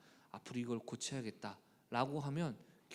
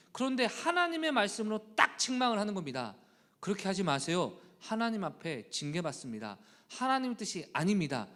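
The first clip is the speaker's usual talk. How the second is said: raised, loud pulpit exhortation; fervent preaching; 6 semitones higher, 6 dB louder than usual. Acted. Pastor exhorting the congregation, fervent preaching. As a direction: press the point home to the church.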